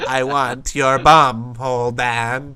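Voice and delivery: slow, low creepy come-on; imitating creepy seduction. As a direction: repeat it as a hammy creep. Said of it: "It's fucking terrifying, not seductive".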